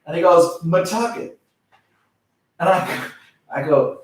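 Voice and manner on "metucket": METUCKET said "muh-TUCK-it", pitched high; the boss's high-pitched "Metucket"; imitated mispronunciation. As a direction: insist on "Metucket", stress in the middle. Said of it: "he would call Metucket".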